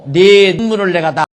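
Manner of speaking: loud, emphatic divine promise; 하나님의 선언. Acted. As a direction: proclaim it firmly as God answering a prayer. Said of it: "그러니까 하나님께서". (하나님이 응답하시듯 힘주어 선포)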